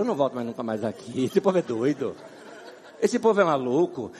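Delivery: low, muttered outsider scoffing; imagined outsider. Retold or imitated. Pastor voicing a shocked outsider, lightly low and scoffing. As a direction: grumble like a shocked visitor. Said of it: "entra numa igreja e fala".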